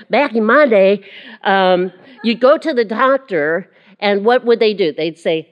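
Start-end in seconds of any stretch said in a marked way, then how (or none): 0.1-3.7 put-on a laughing lapse into a Southern accent; old-timer's Southern accent, played for laughs. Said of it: "I gotta use the Southern accent to go with that".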